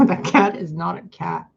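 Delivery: cracking up as you repeat "That cat is not a cat"; giggling disbelief at "That cat is not a cat"; laughing. Real, not acted.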